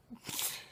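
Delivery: brief, breathy laugh escaping; quick amused laugh; short laugh. Real, not acted. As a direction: let out a small real laugh. Amused at naming Michael's picture.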